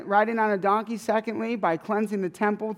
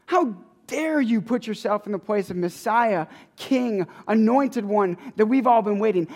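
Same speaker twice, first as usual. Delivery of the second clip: indignant challenge; 3 semitones higher, 3 dB louder than usual. Retold or imitated. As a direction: hammer Jesus with the priests' outrage. Voicing priests' angry challenge.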